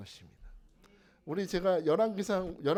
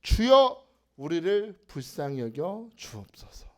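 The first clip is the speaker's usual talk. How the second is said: louder cry; 3 semitones lower, 5 dB louder, slower than usual. Retold or imitated. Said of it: "더욱 소리 질러 이르되".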